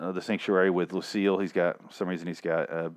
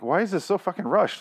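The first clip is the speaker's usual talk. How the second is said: incredulous outburst; 9 semitones higher than usual. Retold or imitated. Exasperated reader reaction.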